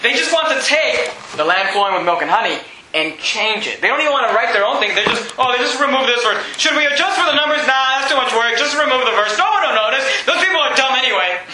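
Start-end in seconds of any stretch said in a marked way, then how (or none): 5.4-11.4 mock lazy translators. Preacher imitating Bible translators cutting a verse, mock lazy. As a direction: brush it off as too much work. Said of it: "this is how lazy they are".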